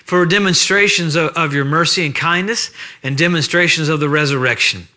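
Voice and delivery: pastoral prayer. Acted. Preacher praying over the church on Sunday morning, reverent. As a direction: pray it unhurried, reverent and sincere.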